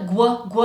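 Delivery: "gu" with a g at the start; "gu", g sliding into w; hard-g glide. Shown as a demonstration. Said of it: "has this g sound in there".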